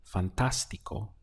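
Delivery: fantástico with the weight on TÁS; stress on TÁS. Shown as a demonstration. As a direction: lean on the middle syllable of fantástico, fan-TÁS-ti-co. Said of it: "This is the point where you have to stress".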